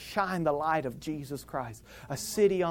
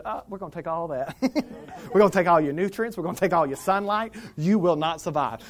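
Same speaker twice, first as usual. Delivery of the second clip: greedy spearmint; 2 semitones higher, 4 dB louder, faster than usual. Acted. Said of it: "the spearmint came over and said".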